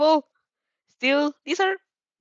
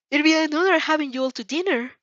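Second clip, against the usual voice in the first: formal, honored; 8 semitones higher, 3 dB louder than usual. A narrator's reading. Formal bow to friends.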